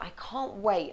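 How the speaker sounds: "can't" stressed, building into "wait". Shown as a demonstration. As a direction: lean on the word "can't". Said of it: "bringing in the emphasis on can't".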